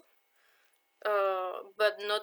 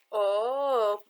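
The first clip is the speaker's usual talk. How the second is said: lightly imitated French accent, louder opening; 4 dB louder, slower than usual. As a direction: mimic a flirty museum worker's French accent. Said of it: "with that French accent".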